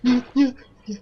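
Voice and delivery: high wailing cry of despair; screaming while falling. Real, not acted. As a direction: cry out as you drop. Falling again, crying out.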